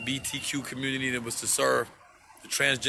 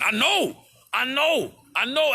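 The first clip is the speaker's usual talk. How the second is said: emphatic agreement; 10 semitones higher, 6 dB louder, slower than usual. Real, not acted.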